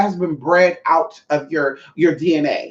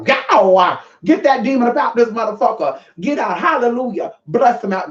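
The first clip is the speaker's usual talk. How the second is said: playfully commanding exorcist; mock exorcist; 4 semitones higher than usual. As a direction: order the demon out in a mock exorcism. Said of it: "y'all witnessing a live exorcism".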